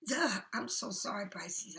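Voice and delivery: mid-yawn apology. Real, not acted. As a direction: let a yawn stretch the words. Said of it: "I can't stop yawning".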